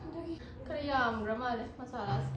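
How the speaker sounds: talking with a mouthful of food; quiet, chewing between words; chewing while talking. Real, not acted. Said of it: "ꯉꯁꯥꯏꯒ ꯆꯥꯕ ꯍꯧꯔꯒ ꯋꯥꯒ ꯉꯥꯡꯉꯒ".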